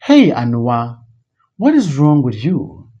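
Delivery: sharp "Hey", then indignant question; acted fatherly rebuke; scolding. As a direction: pull up an unruly daughter. Father breaks up quarrel, scolds daughter.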